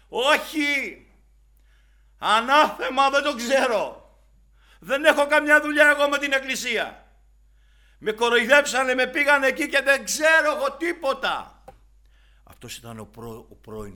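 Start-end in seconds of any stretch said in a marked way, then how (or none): 0.1-11.5 high, loud panicked denial; shouting denial in a courtyard; Peter shouting. Acted. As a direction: yell like a frightened man disowning his faith. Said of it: "θα βλέπαμε τον Πέτρο να φωνάζει".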